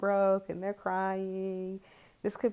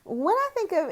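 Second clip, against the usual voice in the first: laughing; 13 semitones higher, 9 dB louder than usual. Real, not acted. Vlogger repeating herself to viewers, laughing. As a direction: repeat it while cracking up. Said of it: "so let me explain".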